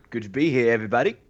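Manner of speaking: badly held Cockney accent; slipping Cockney accent. Co-host introduced by his Cockney accent greets listeners, slipping Cockney. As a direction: put on a shaky attempt at Cockney. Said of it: "my accent's slipping".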